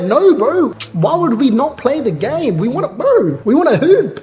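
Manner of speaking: eager soldiers. Retold or imitated. Soldiers protesting the surrender, hammed-up pleading. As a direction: plead like players wanting in. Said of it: "And they're like".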